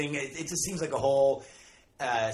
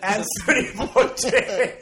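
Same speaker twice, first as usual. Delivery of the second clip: put-on slow, high, loud French accent; hammed-up French echo of a name, laughing; mock French accent; 8 semitones higher, 6 dB louder, much slower than usual. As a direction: stretch the name out in cartoon French. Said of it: "it's the one accent we can do".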